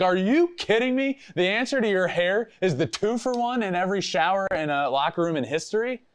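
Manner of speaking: mock outrage at the answer; imitating disbelief, voice jumping up; exasperated. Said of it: "I'm like".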